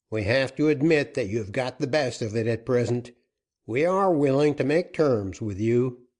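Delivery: a gruff-tempered captain pressing for terms; outlaw captain. Acted. Outlaw captain Joaquin bargains.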